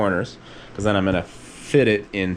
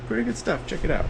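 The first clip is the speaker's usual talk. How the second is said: very high, exaggerated mock voice; imitating the Sail North guy; 13 semitones higher, faster than usual. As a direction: squeak it out like a goofy impression. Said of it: "I don't know if you guys heard this guy".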